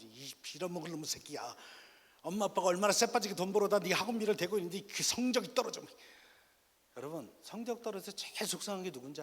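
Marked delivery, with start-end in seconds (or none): 0.0-5.8 loud, high-pitched angry tirade; mock furious parent outburst; acted parental scolding. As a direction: berate your child over bad grades at full volume. Acted parent raging over grades.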